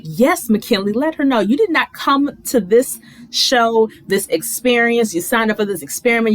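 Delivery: root him on like a fan; cheering. Real, not acted. Vlogger cheering McKinley on from her couch, excited. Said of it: "I wanted to stand up and clap".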